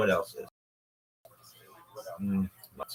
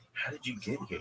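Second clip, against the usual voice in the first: whispered question; 6 dB quieter than usual. Retold or imitated.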